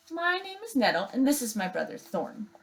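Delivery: sister bear voice. Acted.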